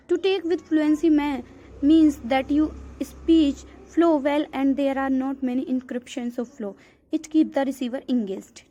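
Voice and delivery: reads the English definition out slowly, word by word; slow reading aloud. Acted. Teacher reading a textbook definition to students, slow and deliberate. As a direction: dictate it slowly to the class.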